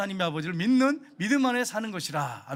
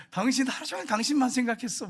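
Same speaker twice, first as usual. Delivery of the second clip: sweet talk to wife; 5 semitones higher, 3 dB louder than usual. Retold or imitated. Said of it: "거짓말도 때로 좋을 때도".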